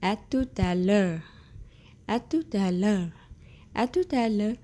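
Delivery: careful teacher model of "À tout à l'heure"; model French phrase. Shown as a demonstration. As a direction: clear demo of "À tout à l'heure". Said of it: "So come to the next one".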